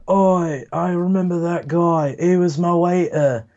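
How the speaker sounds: a light high imitation of Jonah Hill; Jonah Hill quote. A friend quoting a comedy film, lightly voiced high. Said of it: "Jonah Hill starts saying".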